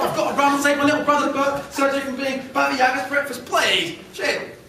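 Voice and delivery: high, pleading little squirrel; high, hurried squirrel begging. Acted. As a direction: squeak out a frantic plea.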